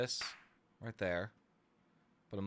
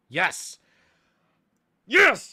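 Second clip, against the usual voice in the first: shouted, much higher joyful yes; excited yes; 7 semitones higher, 14 dB louder than usual. Real, not acted. Streamer cheering when the sound finally works, excited shout. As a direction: burst out in sudden delight. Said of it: "I got really excited over that".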